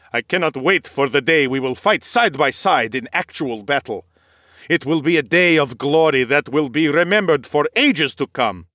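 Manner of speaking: lightly voiced rapt warrior; glory-hungry knight. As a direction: dream aloud of glorious battle. Nikolaus voiced in story.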